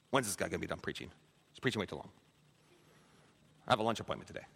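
low, soft, fast muttered gripe; grumbling. Retold or imitated. Bored churchgoer griping about the long sermon, muttered. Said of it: "That's grumbling".

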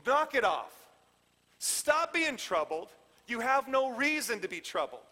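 firm, emphatic telling-off; forceful no-nonsense rebuke; blunt command. Shown as a demonstration. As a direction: order them to stop, leaning on each word. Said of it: "it sounds more like this".

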